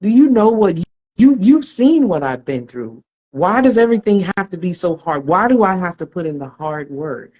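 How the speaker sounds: mock-outraged protest at God; cocky indignation. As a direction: demand it like someone affronted. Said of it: "me and my cocky religious self".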